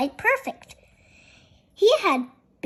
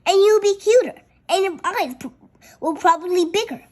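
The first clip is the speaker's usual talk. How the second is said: louder, bright and fast, cheerfully selling it; kind, eager promise; eager reassurance; 4 semitones higher, 4 dB louder, faster than usual. Acted. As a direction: pitch it like good news. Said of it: "offered Pip kindly".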